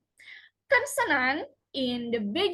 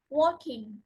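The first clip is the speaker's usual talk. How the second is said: WALKing, stress on walk and a light -ing; suffix left unstressed. Shown as a demonstration. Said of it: "are not usually stressed".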